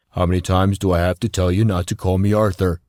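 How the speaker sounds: irritated, gruff protest; annoyed. A narrator's reading. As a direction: tell him off for the nickname. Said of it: "looking angry".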